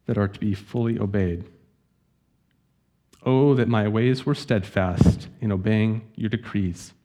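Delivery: measured scripture reading with pauses between phrases; slow reading. Real, not acted. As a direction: read the psalm slowly as a prayer to God. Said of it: "I'll read this slowly".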